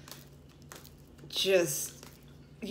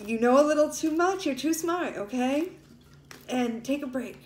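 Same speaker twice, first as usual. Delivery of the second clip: high, tearful voice; crying; 6 semitones higher, 3 dB louder than usual. Real, not acted. Reader urges Libra to take a break, crying. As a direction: push the advice out through real tears. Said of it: "I don't know why I'm crying right now".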